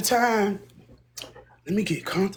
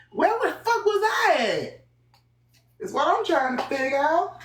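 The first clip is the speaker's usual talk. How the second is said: high, lost and confused; 11 semitones higher than usual. Acted. Streamer loses her place mid-story, asks high and puzzled. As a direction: squeak it out like she forgot everything. Losing her train of thought.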